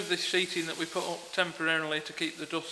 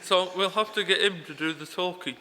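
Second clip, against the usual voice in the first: numb mouth. Real, not acted. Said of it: "Are you putting that on?".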